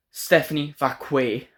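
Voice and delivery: slow, careful mock reading of Stephanie Vacquet, as if off a card; imitating a host who reads Stephanie Vacquet off paper; stilted name reading. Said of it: "did you just read her name off a piece of paper?".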